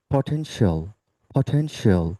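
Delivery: পটেনশিয়াল ending in one syllable, "shol"; corrected pronunciation. Shown as a demonstration. Teacher applying the rule to a word, corrected "shol" ending. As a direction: drill পটেনশিয়াল as "po-then-shol". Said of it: "আমরা বলবো শল".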